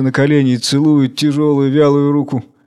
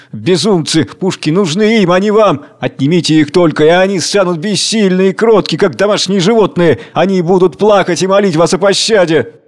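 through gritted teeth; 5 semitones higher, 3 dB louder than usual. Acted. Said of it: "говорит напряжённо сквозь зубы".

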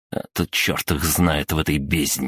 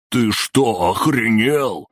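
higher, louder angry bark; 6 semitones higher, 3 dB louder, much slower than usual. A narrator's reading. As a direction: bark it in shock and rage. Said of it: "рявкнул юный мажор".

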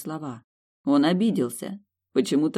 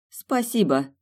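gloomy; 6 semitones higher, slower than usual. A narrator's reading. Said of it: "мрачно поблагодарила Милдред".

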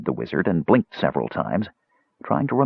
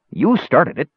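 higher-pitched grumble; grumbling; 8 semitones higher than usual. A narrator's reading. Mage shifts the blame onto Tanis, grumbling. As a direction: grumble it back, pitch raised. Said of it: "the mage grumbled".

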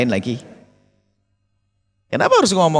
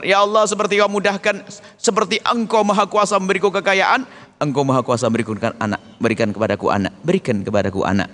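humble prayer. Shown as a demonstration. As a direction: ask gently, the right way. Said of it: "Kalau ngomong yang benar".

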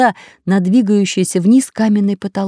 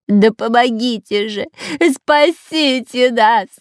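drawn-out, strained calls; straining cry for help; 4 semitones higher, slower than usual. A narrator's reading. The robber strains his voice crying for help. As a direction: shout yourself hoarse for help. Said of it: "надрывался разбойник".

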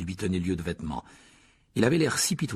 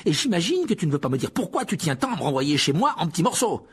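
higher and louder, biting; Harry still furious, raised voice; furious sarcasm; 8 semitones higher, 5 dB louder than usual. A narrator's reading. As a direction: lash out sarcastically. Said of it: "avec fureur".

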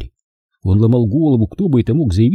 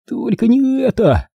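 high, lightly hoarse stage whisper; understated husky hush, pitched high; 12 semitones higher than usual. A narrator's reading. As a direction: whisper it in dismay. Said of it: "сипло прошептал Чарли".

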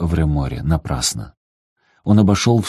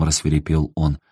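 usual speaking voice

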